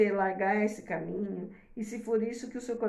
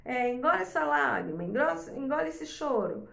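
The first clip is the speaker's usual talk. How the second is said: harsh scolding parent; 5 semitones higher than usual. Retold or imitated. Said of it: "ao invés de eu falar assim".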